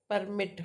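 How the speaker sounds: "permit" as a noun, weight on the first syllable; PER-mit, first syllable leaning harder; first-syllable stress. Shown as a demonstration. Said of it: "first syllable is noun per".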